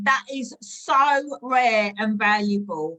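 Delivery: mock gushing. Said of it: "let's role play".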